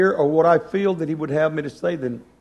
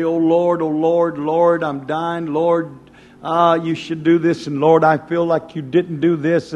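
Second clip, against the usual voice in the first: louder, begging Oh Lord; pleading prayer; 4 dB louder, slower than usual. Retold or imitated. Preacher imitating a complaining prayer, mock pleading. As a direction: cry out to the Lord like a desperate pleader. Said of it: "we can beg, we can plead and say".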